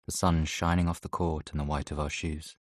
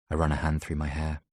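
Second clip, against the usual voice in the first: ordinary delivery, nothing marked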